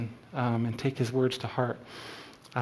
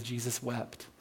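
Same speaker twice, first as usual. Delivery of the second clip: hushed reading; 12 dB quieter than usual. Acted. Reading verse, dropped very soft.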